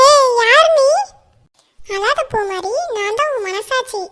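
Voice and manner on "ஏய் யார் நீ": loud, higher startled "who are you"; startled cry. Acted. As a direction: jump at a sudden stranger. Girl startled by conscience appearing.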